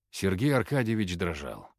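usual speaking voice

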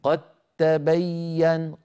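قد تبين slow, د merged into a doubled ت; merged recitation. Shown as a demonstration. Teacher showing the merged د in قد تبين. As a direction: say قد تبين as one flowing تّ with no د. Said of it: "إذا نقول".

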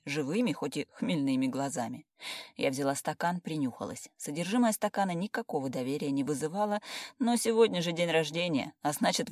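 plain reading voice

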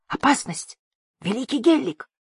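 high, urgent warning call; alarmed cry. A narrator's reading. Rinan warning the great toad Gellick, alarmed cry.

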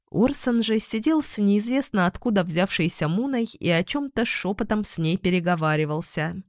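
plain reading voice

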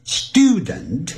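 student in British English, "styoo-dent"; British-accented student. Shown as a demonstration. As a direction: give student a British y-glide. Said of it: "叫做British English".

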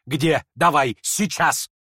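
snatch at the note with your voice; urgent demand. Acted. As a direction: she demands the note at once.

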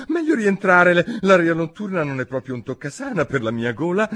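high, fretful excuse; lightly voiced old bird making excuses; high, fussing little voice; fussy old magpie. A narrator's reading. Old magpie excusing herself to leave.

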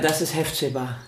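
breathy unvoiced whisper; whispered aside. Menuhin introducing his sister to Einstein, whispered. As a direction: say the name under your breath.

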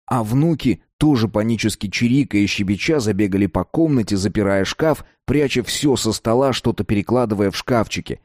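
usual speaking voice

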